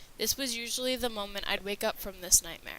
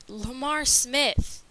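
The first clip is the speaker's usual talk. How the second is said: shocked cry; 4 semitones higher, 9 dB louder, much slower than usual. A narrator's reading. Sees villain approaching.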